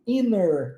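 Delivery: "inner" with no T at all; swallowed T. Shown as a demonstration. Teacher isolates the reduced syllables, "inner" with the T swallowed. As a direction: say "inner", just an N where "inter" has NT. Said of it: "como é que se engole o T".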